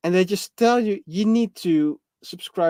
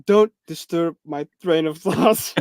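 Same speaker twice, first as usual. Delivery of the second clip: mimicked friend; slower than usual. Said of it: "And you're like".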